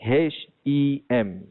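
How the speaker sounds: H E M spelled slowly as the wrong form; wrong hem spelling. Shown as a demonstration. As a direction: spell out H E M as the mistake.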